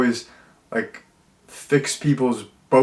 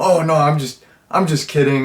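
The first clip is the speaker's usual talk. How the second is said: dry, sarcastic take-back; 3 semitones higher than usual. Retelling lines of a sarcastic movie character: imitating Ezekiel's sarcasm. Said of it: "he's always sarcastic".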